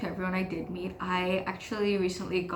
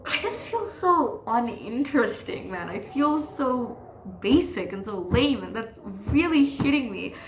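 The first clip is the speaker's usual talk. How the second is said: real frustration, higher-pitched and pressing; frustrated rant; 4 semitones higher than usual. Real, not acted. Venting to viewers about feeling lame, frustrated rant. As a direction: vent with anger spilling out. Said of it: "that is a lot of anger coming out".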